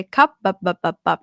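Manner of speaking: "bup" repeated in short stopped bursts; undraggable dead syllable. Shown as a demonstration. Teacher proves cup can't be dragged, abrupt repeated stops. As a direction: stutter "bup" as if failing to stretch it. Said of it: "I couldn't drag it".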